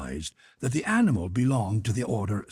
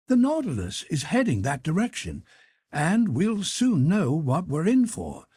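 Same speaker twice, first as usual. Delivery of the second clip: higher, lightly voiced young servant; a light, higher-pitched valet voice; Conseil's voice; 9 semitones higher than usual.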